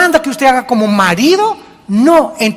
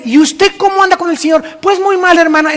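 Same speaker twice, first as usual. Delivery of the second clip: higher, lively back-and-forth; a counselor and mother trading lines, pitched higher; acted exchange; 6 semitones higher than usual. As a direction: play both sides of the chat, voice raised.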